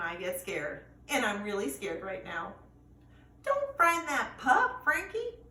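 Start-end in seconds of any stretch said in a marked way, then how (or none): 3.4-5.4 growl. A narrator's reading. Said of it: "growls suddenly".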